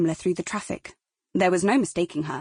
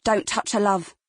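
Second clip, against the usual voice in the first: warning. Acted. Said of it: "someone said warningly".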